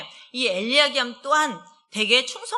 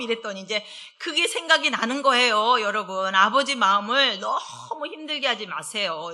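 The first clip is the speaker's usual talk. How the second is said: usual speaking voice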